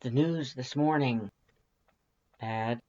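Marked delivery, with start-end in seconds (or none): 2.4-2.8 muttered. Acted. The narrator reacting to the morning news, muttered softly. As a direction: barely get it out. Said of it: "you mutter".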